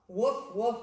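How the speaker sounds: loud playful woof; puppy barking. Acted. Librarian voicing Biscuit the puppy for kids, loud woofs. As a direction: bark like a little puppy. Dog barks in the story.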